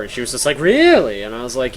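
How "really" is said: high, loud mock-impressed gasp; a hammed-up excited girl. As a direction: act dazzled by what he just said.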